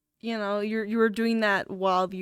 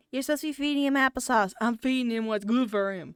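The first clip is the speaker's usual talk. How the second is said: put-on old man voice. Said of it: "nowhere close to what my grandpa sounds like".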